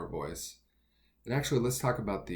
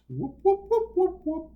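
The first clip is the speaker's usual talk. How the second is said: high-pitched whoop; 7 dB louder than usual. Shown as a demonstration. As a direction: whoop whoop in a much higher, louder head voice. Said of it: "Higher pitch up there".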